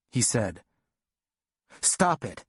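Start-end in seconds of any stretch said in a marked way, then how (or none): 1.8-2.5 yell. Retold or imitated. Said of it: "I yelled".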